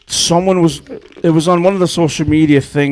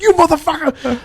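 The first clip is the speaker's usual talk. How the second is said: mock outrage; 12 semitones higher than usual. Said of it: "He's like".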